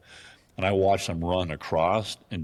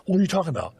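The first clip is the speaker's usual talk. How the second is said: mock indignant, much higher and louder; defensive denial; 12 semitones higher, 4 dB louder, faster than usual. Hunter imitating the intruder denying the blind, high indignant. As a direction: squeak it out, playing innocent. The man denies in a quarrel.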